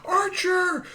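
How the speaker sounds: imitated high, drawn-out distant call; mock excited neighbor calling out, very high; calling from afar. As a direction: holler to a dog from houses down. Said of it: "I hear from the distance".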